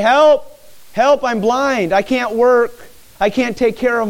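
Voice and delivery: high, loud pleading cry for help; beggar's plea. Pretend. Blind beggar begging passersby, high loud pleading.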